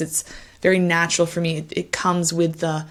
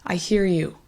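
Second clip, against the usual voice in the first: empathetic acknowledgment. Shown as a demonstration. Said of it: "This one".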